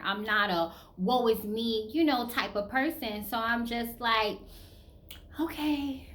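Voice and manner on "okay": breathy whispered resolve; whispered self-talk. Retold or imitated. Woman giving herself a pep talk, whispered. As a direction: whisper it to yourself.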